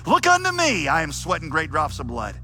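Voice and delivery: high, loud cries that surge and drop; Methodist preacher's shout. Acted. Primitive Methodist preaching Christ's sufferings to sinners, fervent shout. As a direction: shout each appeal like a fervent revival preacher. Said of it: "shouting like only a primitive Methodist could".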